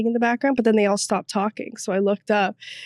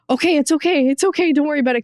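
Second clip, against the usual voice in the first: reassuring; 5 semitones higher, much faster than usual. Retold or imitated. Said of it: "she was literally about to cry".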